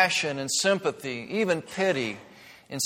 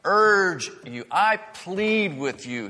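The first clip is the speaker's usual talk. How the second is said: urging plea; 5 semitones higher, much slower than usual. Retold or imitated. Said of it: "moved from just talking to urging".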